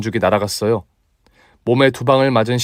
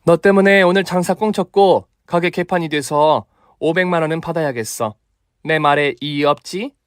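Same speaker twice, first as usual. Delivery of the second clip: stern demand; 5 semitones higher than usual. Acted. Mother demands compensation.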